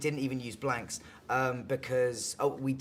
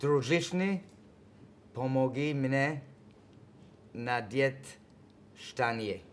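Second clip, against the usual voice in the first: slow English-accented Russian; Russian phrase attempt; slower than usual. Shown as a demonstration. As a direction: spell out each Russian word slowly. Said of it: "very bad Russian accent".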